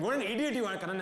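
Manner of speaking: high, loud self-reproach; exasperated outburst at yourself; scolding himself. Retold or imitated. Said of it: "I was extra mad at myself".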